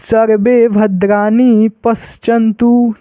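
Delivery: slow chanted line; mantra recitation. Shown as a demonstration. Teacher reciting the mantra for students. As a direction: intone the line slowly. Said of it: "आगे देखिए क्या है".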